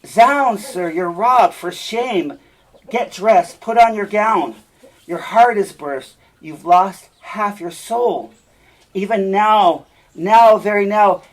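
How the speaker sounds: loud and high, slowing at the end; loud taunting alarm. Acted. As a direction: jeer up at the father with alarm. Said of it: "says in, in line eighty-seven".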